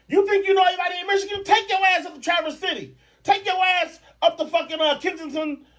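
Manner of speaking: high rapid ranting shout; mock shout. Comic scolding girlfriend about her Tampa trip, shouting fast.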